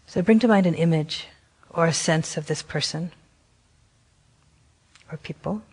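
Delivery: gentle meditation guidance with long pauses; guided meditation. Acted. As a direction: guide them unhurriedly, leaving long silences between phrases. Leads a guided compassion meditation.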